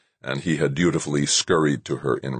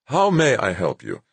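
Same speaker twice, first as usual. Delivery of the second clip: solicitous; 6 semitones higher than usual. A narrator's reading. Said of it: "asked solicitously".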